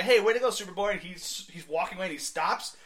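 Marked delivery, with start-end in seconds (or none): 0.0-0.9 put-on cheering kids. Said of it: "kids are talking to him and say".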